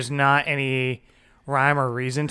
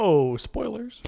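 mock alarm; 8 semitones higher, much slower than usual. Teasing about a spoiler.

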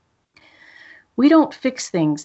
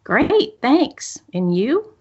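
bright token reply; 3 semitones higher, much slower than usual. Retold or imitated. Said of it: "such as".

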